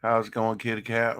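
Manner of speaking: high pet-talk voice. Acted. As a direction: coo to the cat. Talking to the cat.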